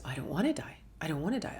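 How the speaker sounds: hushed, pleading don't wanna die; retold, softly frightened; frightened whisper. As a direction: whisper the fear to yourself. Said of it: "I started crying and I realized".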